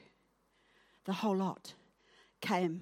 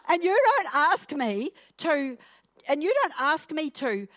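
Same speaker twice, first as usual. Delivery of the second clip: mock complaint; 5 semitones higher, 4 dB louder than usual. Preacher acting out a whining complaint.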